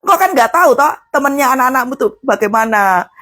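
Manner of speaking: usual speaking voice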